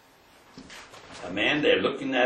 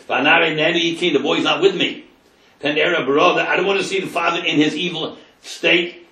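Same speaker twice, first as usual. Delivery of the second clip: higher and louder, pleading hard; impassioned plea; 5 semitones higher, 5 dB louder than usual. Acted. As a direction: plead with everything you have. Yehuda's climactic plea, rising.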